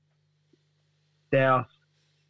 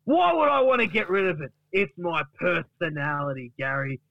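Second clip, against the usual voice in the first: offended Duck; 2 semitones higher than usual. Acted. Duck rejects Gary's dry ice advice, offended retort. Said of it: "And then Duck says".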